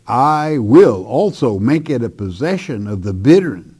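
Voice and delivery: "I will" given firm, separate weight; emphatic I will. Shown as a demonstration. Preacher reading God's vow from the verse, emphatic on "I will". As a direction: lean on "I will", then read on. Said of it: "again emphatic".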